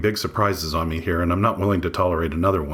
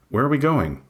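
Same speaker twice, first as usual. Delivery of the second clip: anxious question; 7 semitones higher than usual. A narrator's reading. Narrator asks anxiously.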